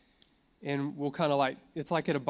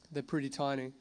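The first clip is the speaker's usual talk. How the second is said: They're pretty tiny repeated softer, to himself; soft, reflective repeat; quiet echo; 6 dB quieter than usual. Shown as a demonstration. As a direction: murmur it back as an afterthought.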